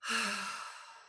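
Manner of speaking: long exhale out of the mouth; demonstrated sigh. Shown as a demonstration. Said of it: "exhaling out of your mouth with a sigh".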